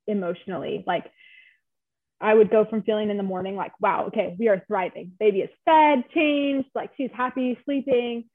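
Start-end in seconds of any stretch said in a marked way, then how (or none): 3.8-8.3 higher, brisk list of wins; mildly elated retelling, pitch lifting on each item; upbeat recap. Retold or imitated. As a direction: proudly tick off the good news. Recalls upbeat morning mood.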